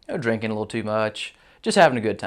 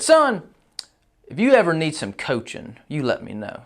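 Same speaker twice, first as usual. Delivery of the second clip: patronizing offer; 4 semitones higher than usual. Retold or imitated. Manager patronizingly offers coaching.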